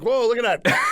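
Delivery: high-pitched retold astonishment; lightly hammed-up wonder; mock amazement. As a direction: act out watching something fly past. Acting out watching tooth fly.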